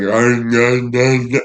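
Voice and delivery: mocking viewers who chew bread all day, grunting. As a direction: grunt like a dumb bread chewer. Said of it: "You guys like".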